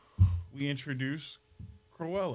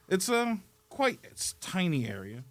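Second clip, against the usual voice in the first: put-on Australian accent; 5 dB louder than usual. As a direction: stretch it out like an Aussie. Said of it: "I think that went Australian".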